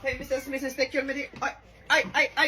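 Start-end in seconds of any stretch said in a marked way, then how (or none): 1.4-2.5 put-on Filipino accent, startled and louder. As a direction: yelp ay ay as he throws it at you. Patient throws something at her.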